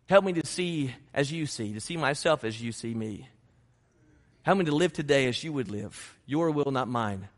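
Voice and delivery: sincere prayer. Shown as a demonstration. Pastor modeling a humble prayer for the church. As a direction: pray it humbly.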